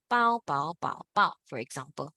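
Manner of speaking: BAO repeated, each in another tone; different tones. Shown as a demonstration. Teacher giving example intonations, BAO changing tone each time. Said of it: "hear in different, uh, intonation".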